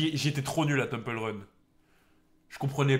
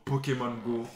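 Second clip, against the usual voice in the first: said through a laugh; 4 semitones lower, 4 dB quieter than usual. Real, not acted. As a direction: laugh while saying it. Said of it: "repeats it drawn out".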